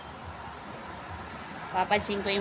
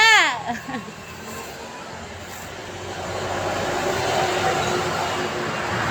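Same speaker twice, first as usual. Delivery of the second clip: laughing; 2 semitones higher than usual. Real, not acted. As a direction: laugh trailing off after a shout. Laughs after calling ma.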